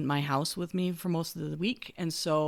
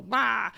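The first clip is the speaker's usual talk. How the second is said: mock exasperated bah; 5 semitones higher than usual. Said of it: "I immediately go".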